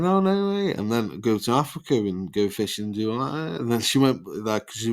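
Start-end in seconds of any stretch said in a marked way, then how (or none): 0.0-0.7 much higher, louder gasp of disbelief; mock-impressed girl at a bar; amazed. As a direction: play her delighted astonishment. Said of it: "And she said".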